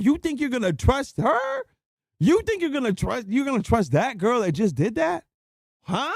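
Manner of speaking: high-pitched, emphatic disbelief; incredulous scolding. Real, not acted. Streamer scolding men for trusting that girl, incredulous. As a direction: hammer the questions in a high, indignant voice. Berating them for trusting her.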